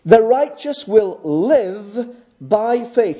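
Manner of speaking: "The righteous will live by faith" read out slowly and evenly, no word pushed; slow text reading. Shown as a demonstration. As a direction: lay the verse out plainly and slowly. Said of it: "I lay it out before you simply as it is in the text".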